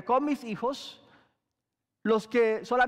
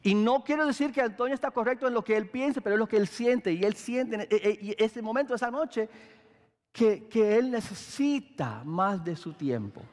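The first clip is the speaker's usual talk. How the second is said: gentle. Retold or imitated. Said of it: "si ella me lo dijera de esta forma".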